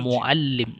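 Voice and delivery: "muallim" slow, leaning on "al"; stress on second syllable. Shown as a demonstration. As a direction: hold the middle syllable "al" of "muallim". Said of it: "tekankan pada yang kedua". (tekan suku kedua "al" dalam "muallim")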